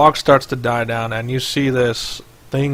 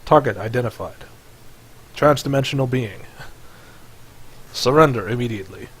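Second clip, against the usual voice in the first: level mechanical robot voice. Acted. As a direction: speak like a machine robot. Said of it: "you hear a mechanical voice".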